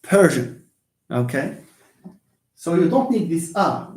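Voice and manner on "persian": "Persian" said clearly as PER-zhun; "Persian" as a careful model word; demonstrated pronunciation. Shown as a demonstration. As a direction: say "Persian" firmly with a zh sound. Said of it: "is like this".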